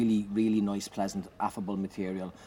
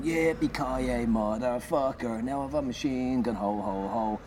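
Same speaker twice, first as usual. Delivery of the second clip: slow, drawn-out movie catchphrase; hammed-up action hero; 3 semitones higher, slower than usual. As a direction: camp action-hero bellow. Die Hard song performance.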